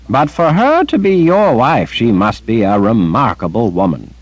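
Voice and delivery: lightly voiced kindly grandfather; gentle Zed. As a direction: reassure the grandson.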